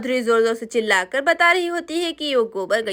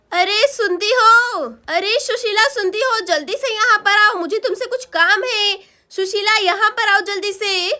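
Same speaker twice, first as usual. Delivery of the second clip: calling out; 4 semitones higher than usual. Acted. Woman calls her neighbour to come quickly, insistent calling. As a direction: summon someone from across the yard.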